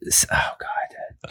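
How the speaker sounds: breathy whisper while searching for a name; whispered to himself. Real, not acted. Trying to recall a mobster's name, whispering to himself. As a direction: mutter it under your breath, trying to remember.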